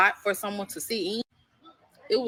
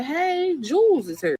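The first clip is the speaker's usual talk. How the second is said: messy mama announcing; 8 semitones higher, 6 dB louder, slower than usual. Retold or imitated.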